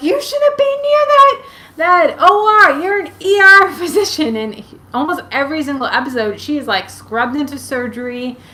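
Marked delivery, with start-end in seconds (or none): 0.0-4.3 very high, very loud, exasperated, frustrated yell. Speaker recalls reacting to a TV doctor doing surgery: retelling a frustrated yell. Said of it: "And I'm yelling at the T V".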